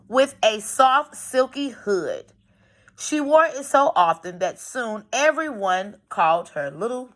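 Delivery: put-on storybook read-aloud for young pupils; gently paced classroom story reading; reading to children. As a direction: read it like a picture book to a class. Teacher reads story aloud to class.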